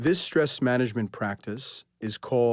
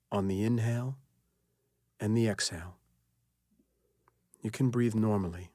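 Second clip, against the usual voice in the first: unhurried relaxation guidance with long pauses; guided meditation. Acted. Leads guided sleep relaxation.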